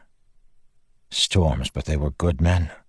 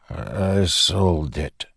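ashamed; much slower than usual. Acted. Teft ashamed.

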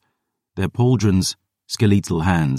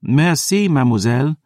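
much higher, playful thanks; girl thanking the vampire, much higher; delighted thanks; 9 semitones higher than usual. Acted. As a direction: toss it off gleefully. Dior thanks Selene.

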